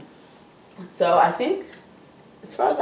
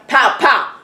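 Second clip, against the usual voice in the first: mock gunshot, higher voice; gunshot imitation; 5 semitones higher, 4 dB louder than usual. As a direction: punch out two pretend shots. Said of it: "gunshot sound".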